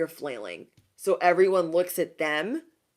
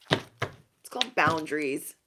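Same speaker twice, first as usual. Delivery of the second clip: firm boundary-setting; slower than usual. Acted. You repeating the boundary to doubters, firm. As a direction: spell it out slowly and firmly.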